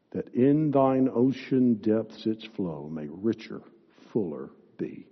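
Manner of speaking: measured, lifted hymn reading; solemn verse recital; hymn recitation. Acted. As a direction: recite the hymn with sustained, reverent phrasing.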